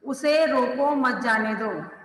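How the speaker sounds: "उसे रोको मत जाने दो" as one unbroken phrase; no break anywhere, leaving the meaning unclear; no pause. Shown as a demonstration. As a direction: read "उसे रोको मत जाने दो" slowly without any comma. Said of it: "वाक्य स्पष्ट नहीं हो रहा है".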